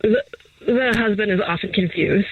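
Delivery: whispered wildlife narration aside; hushed narrator whisper. Acted. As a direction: whisper like a nature documentary narrator. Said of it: "why are you talking like that?".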